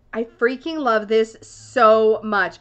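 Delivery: slow gushing. Real, not acted. Gushing over the deck.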